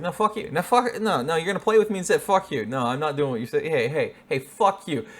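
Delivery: mock bratty kid yelling back; feisty child voice. Owner voicing the dog as a bratty child. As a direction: play a defiant little kid.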